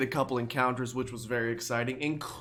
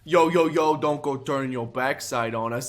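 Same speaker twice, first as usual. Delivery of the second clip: loud, cocky street grunt taunting; thug grunt; 4 dB louder than usual. Acted. Gamer voices a Team Skull grunt taunting the player, loud and cocky. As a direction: swagger it out like a punk.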